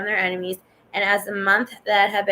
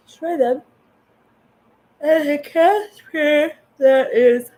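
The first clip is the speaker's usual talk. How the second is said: louder and higher over the noise; loud reading; 7 semitones higher, 7 dB louder, slower than usual. Real, not acted. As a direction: push the words out loudly and slowly. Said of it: "probably didn't hear any of that".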